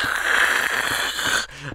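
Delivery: long, rasping monster hiss; imitated evil hiss through the throat; evil creature hiss. Dad at the bedroom door teasing his kid, evil hiss. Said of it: "just being all evil".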